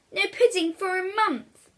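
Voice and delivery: high, loud, final punishment; strict mother. Acted. Mother raising William's punishment, high and loud. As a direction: slam the sentence down.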